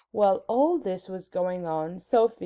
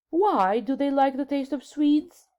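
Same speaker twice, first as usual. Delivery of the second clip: puzzled king; 6 semitones higher than usual. A narrator's reading. King asks, baffled.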